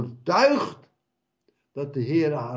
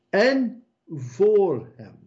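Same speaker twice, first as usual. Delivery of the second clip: slow, drawn out; 6 semitones higher, much slower than usual. Acted. Preacher drawing out phrase.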